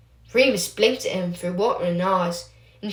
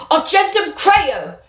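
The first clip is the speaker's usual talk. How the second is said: higher, louder, slow battle cry; shouted spell; 10 semitones higher, 6 dB louder, slower than usual. Acted. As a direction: bellow the spell out. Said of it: "a gruff voice shouted".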